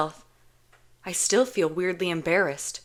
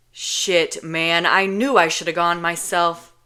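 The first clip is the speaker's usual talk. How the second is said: louder exasperated grumble; loud frustrated complaint; 5 dB louder, slower than usual. Acted. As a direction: vent at the failure. Kenji frustrated.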